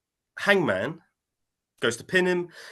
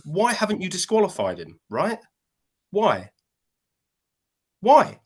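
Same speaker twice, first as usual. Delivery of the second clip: mock pleading wrestler; 4 semitones higher than usual. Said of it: "turn to the ref and go".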